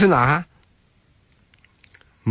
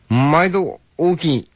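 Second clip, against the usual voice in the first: Kansai shopkeeper greeting; 4 semitones higher, slower than usual. Retold or imitated. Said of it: "関西だけだろうな".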